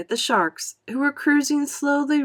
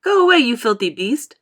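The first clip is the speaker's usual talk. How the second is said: louder yell at the beast; angry shout; 4 semitones higher, 7 dB louder than usual. A narrator's reading. Creatures shouting at the shark. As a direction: drive the shark off.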